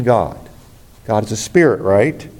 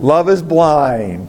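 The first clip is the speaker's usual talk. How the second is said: slow, stressed proverb; 3 semitones higher, much slower than usual. Shown as a demonstration.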